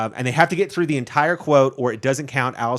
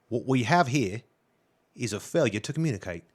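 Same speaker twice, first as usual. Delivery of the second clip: put-on Australian accent; 2 semitones lower, 5 dB quieter than usual. Player reading a movie quote for a guessing game, Australian accent. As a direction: read it as a laid-back Australian. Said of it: "the accent is Australian".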